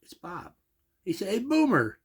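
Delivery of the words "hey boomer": high, loud hearty hello; cheerful greeting. Retold or imitated. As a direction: greet your buddy with a bang. Bob calls cheerfully on phone.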